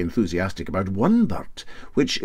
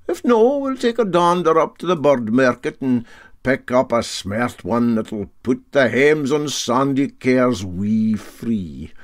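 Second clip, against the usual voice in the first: put-on raised, hearty old skipper voice; Para Handy's voice; 3 semitones higher, 4 dB louder than usual. Captain taking up the bet, hearty and raised. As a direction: bluff Highland captain boasting.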